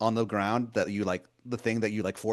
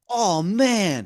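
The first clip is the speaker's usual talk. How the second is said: much higher and louder, a sweet-talking wizard calling you hun; Baltimore wizard voice; 12 semitones higher, 7 dB louder than usual. Acted. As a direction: wheedle like a pushy old wizard begging a favor. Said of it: "He goes".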